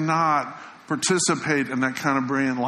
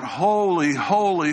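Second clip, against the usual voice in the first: crying out; 3 semitones higher, slower than usual. Retold or imitated. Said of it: "crying out".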